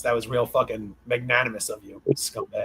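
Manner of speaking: sarcastic congratulations. Real, not acted. Sarcastic jab at his deal.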